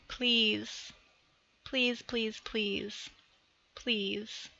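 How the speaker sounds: soft, slow, earnest pleading; sincere plea. Real, not acted. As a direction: beg them quietly and sincerely, fading to near silence.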